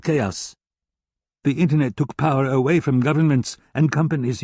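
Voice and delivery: a hint of a contemptuous German hacker lecturing. German hacker praises Cerberus.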